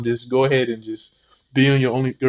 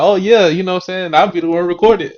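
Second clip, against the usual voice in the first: put-on eager boyfriend quote; 5 semitones higher, 4 dB louder than usual. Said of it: "And dude was like".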